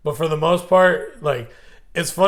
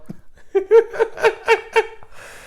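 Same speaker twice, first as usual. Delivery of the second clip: a long, high, wheezing burst of laughter; cracking up hard at the joke; high squealing laugh. Real, not acted. Laughing at his friend's retold movie scene, high squeal. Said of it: "That's so good".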